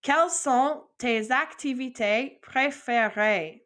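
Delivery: slow, careful full French question; whole phrase model. Shown as a demonstration. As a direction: say the whole phrase for them to copy. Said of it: "I'm gonna say the whole phrase".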